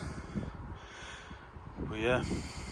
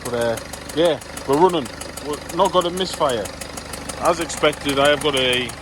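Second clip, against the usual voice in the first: raised voice over a running engine; shouting over engine. Real, not acted. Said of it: "I hope you can hear me over the noise".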